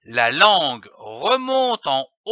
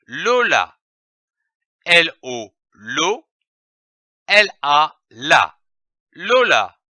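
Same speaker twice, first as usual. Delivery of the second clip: syllable reading. Shown as a demonstration. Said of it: "Commençons par lire les syllabes".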